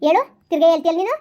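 angry retort. Acted. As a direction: snap back at her for repeating it. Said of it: "ಕೋಪ ತೆಕ್ಕಿದ್ ಮತ್ ನಂಗೆ".

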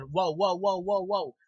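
hammed-up repeated whoa as the head spins; mock skeleton whoa. Reviewer imitating the spinning skeleton, mock whoa.

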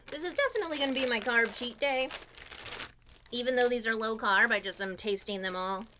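talking with mouth full; chewing loudly between words; messy loud eating. Real, not acted. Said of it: "sorry for talking with my mouth full".

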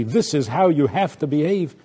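firm parental instruction, mildly acted; firm and strong. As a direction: lay down the rule firmly. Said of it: "told firmly and strongly".

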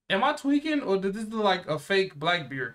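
high, loud am I tweaking; can't believe your eyes; disbelief. Real, not acted. Reacting to a fake Blackbeard crew in disbelief.

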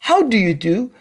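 very slow how do you do; slow model phrase. Shown as a demonstration. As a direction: draw out every word for the class.

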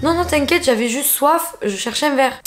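casually cool. Retold or imitated. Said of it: "il était en mode cool".

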